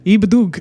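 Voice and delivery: "Ibadug" said as goodbye reversed, with a laugh; backwards speech. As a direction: say "Ibadug" like a magic word, giggling. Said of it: "which is goodbye backwards".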